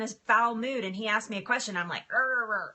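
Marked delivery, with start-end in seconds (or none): 2.1-2.7 short wordless grumpy growl; lightly imitated grumpy "rrr"; mock grumble. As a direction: grumble like someone woken in a foul mood. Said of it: "I grumble at him".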